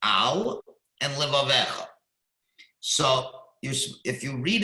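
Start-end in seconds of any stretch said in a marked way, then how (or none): 0.0-1.9 whispering "al and levavecha"; whispered. Shown as a demonstration. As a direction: breathe the words out unvoiced. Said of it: "when you have the two words".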